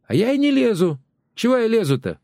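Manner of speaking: high, huffy neighbour's voice; wife protesting to her husband; indignant neighbour. Acted. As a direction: protest she isn't meddling.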